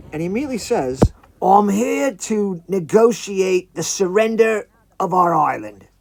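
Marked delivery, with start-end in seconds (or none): 1.4-5.9 pompous creature envoy, projected and slow; talking iguana. Acted. Iguana prime minister to a visitor on the beach, put-on creature voice.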